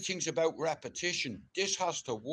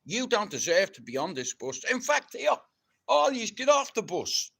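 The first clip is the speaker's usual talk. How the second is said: higher, louder mock dressing-room rant; pretend captain shouting; 9 semitones higher, 3 dB louder than usual. Imagined captain yelling at the squad, mock furious shouting. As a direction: bawl the players off the bus as captain. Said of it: "I'd be like".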